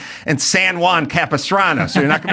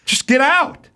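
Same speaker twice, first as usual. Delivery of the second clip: angry driver, much higher; mock angry driver; 12 semitones higher, slower than usual. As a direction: snap at him. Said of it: "he goes".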